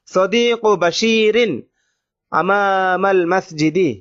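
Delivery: each Arabic word drawn out slowly for students; slow dictation. Shown as a demonstration. Teacher reading the example to students, slow and deliberate. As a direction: read it out slowly so the class can follow. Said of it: "teacher reads Arabic example".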